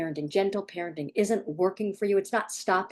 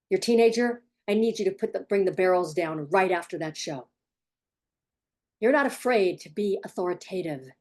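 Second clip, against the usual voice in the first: calm but unbending leadership; authoritative parent. Shown as a demonstration. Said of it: "And it sounds like this".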